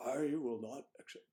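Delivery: caricatured politician impression; lightly hammed-up presidential voice; Dick Nixon. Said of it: "caricatures of Dick Nixon".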